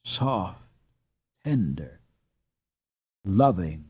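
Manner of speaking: tender, hushed reading; soft and tender. A narrator's reading. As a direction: let the words melt softly like a lullaby. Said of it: "an answer came, soft, tender".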